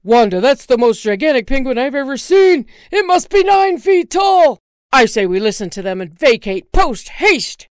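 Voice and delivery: very loud, panicked husband; terrified shout. Acted. Husband to wife, terrified of giant penguin. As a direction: shout in terror.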